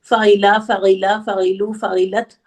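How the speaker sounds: reciting the verb table from the top; imitating a student counting through by rote; rote recitation. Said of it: "पढ़ रहे हो शुरू से".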